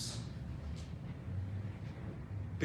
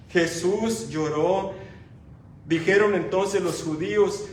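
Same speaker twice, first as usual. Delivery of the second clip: proclaimed; 3 semitones higher, 6 dB louder than usual. Acted. Repeated proclaimed.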